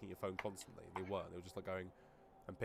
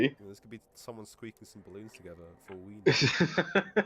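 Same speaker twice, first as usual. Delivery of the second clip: loud mock defence; 11 dB louder than usual. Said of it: "jokey rant".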